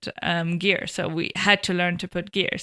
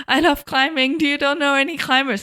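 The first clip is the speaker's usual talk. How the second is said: higher and louder, bursting with enthusiasm; eager excited plea; 7 semitones higher, 5 dB louder than usual. Retold or imitated. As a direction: pitch it like a keen teen begging for climbing partners. Retelling her eager asking around.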